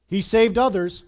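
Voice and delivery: loud, mildly scornful jab; a touch of open scorn; scoffing. A narrator's reading. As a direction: read it as a scoff. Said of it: "they scoffed".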